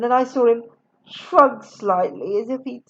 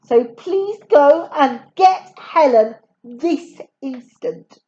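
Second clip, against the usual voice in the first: bossy schoolmaster; 3 semitones higher, 6 dB louder, slower than usual. Acted. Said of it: "in a bossy schoolmastery voice".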